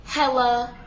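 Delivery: Hella said with an e sound, mocking; mock the wrong Hella; wrong pronunciation. Shown as a demonstration. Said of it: "not Hella".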